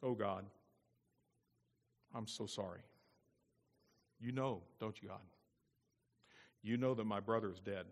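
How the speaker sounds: low, soft, halting remorse; hushed confession. Acted. Cain confesses to God his brother is dead, hushed confession. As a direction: confess quietly with long pauses. Acts out Cain's imagined confession.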